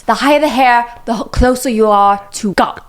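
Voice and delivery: muddled attempt at a Texas saying's accent; unplaceable accent attempt. Quoting what they say in Texas, muddled accent. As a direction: have a go at an accent that wanders. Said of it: "I don't know what accent I just did".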